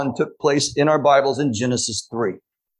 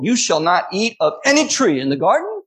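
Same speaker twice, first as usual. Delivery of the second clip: misleading misquote; 8 semitones higher than usual. Retold or imitated. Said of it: "an intentional and very misleading misquote".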